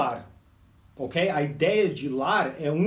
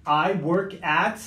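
slow model sentence; much slower than usual. Shown as a demonstration. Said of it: "se você for falar".

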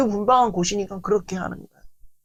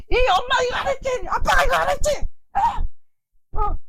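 scolding shout; faster than usual. Retold or imitated. Parent shouting at disobedient children, scolding yell. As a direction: scold the kids at full volume.

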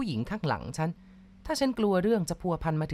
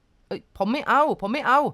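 higher, louder, slow frantic refusal; panicked shout; 6 semitones higher, 5 dB louder, slower than usual. Acted. Terrified driver shouts his refusal at the gunman. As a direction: shout no in fear. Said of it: "ฉันก็ตะโกนขึ้น".

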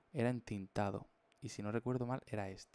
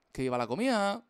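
higher, louder cartoon cheer; cartoon character cheer; 9 semitones higher, 8 dB louder than usual. Streamer voices his drawn character cheering for food. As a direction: cheer like a greedy cartoon glutton.

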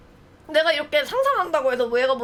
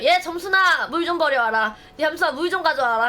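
calling out to the maid; 3 semitones higher than usual. Pretend. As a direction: call the maid over, bossy and raised.

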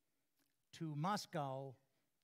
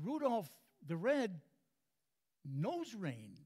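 higher, slow sing-song tease; playful husband's wink to his wife; teasing punchline; 5 semitones higher, 3 dB louder, slower than usual. Retold or imitated. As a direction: drag out Rudolph the Red like a carol. Punchline of joke.

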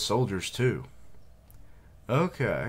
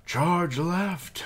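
urgent whispered command, higher; whispered order; 12 semitones higher, 6 dB louder than usual. Acted. Soldier whispering an order to the troops. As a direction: hiss the order to charge.

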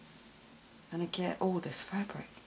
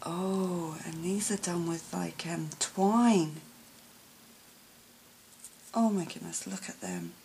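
ordinary talk

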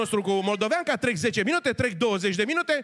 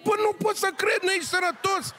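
high-pitched incredulous rant; outraged priest; 9 semitones higher than usual. Acted. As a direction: squeal it high, can't believe it. Priest ranting at gypsy. (preot revoltat, voce foarte subțire)

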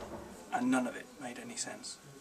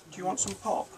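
put-on boy's voice; 7 semitones higher, 6 dB louder than usual. A narrator's reading. Boy voiced by narrator.

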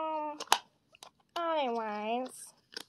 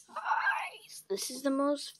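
whisper; slower than usual. Real, not acted. Whispering to the viewers.

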